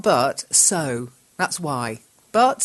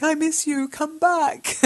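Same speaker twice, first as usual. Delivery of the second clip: high, pleading call to come back; pleading miss you; 11 semitones higher, 4 dB louder, slower than usual. Acted. Teacher pining for her husband away in England, pleading. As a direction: plead for him to come home. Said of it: "is more like".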